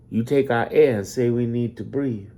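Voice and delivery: normal talking voice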